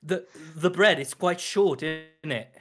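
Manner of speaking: slow gruff British judge; Paul Hollywood impression; British accent. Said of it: "Show the class".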